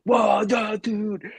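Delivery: high, loud astonished shout; friends freaking out. Retold or imitated. Friends hear it's Twentieth Century Fox, freaking out. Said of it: "They're, like, freaking out".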